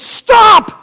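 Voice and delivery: high, loud, slow alarmed shout; alarmed angel shouting at a worshipper. Acted. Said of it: "the angel goes".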